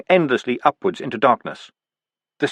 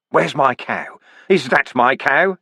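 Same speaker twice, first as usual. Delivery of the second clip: dazed demand; 2 semitones higher, slower than usual. Acted. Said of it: "it demanded".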